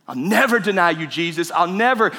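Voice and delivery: insistent retold pledge; emphatic vow. Preacher voicing Judas promising never to deny, emphatic. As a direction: punch "never" like a sworn promise. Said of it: "no matter how emphatically you try to prove".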